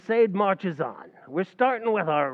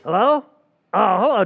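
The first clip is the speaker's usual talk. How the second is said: loud phone hello; 3 semitones higher, 8 dB louder than usual. Real, not acted. Answering the phone.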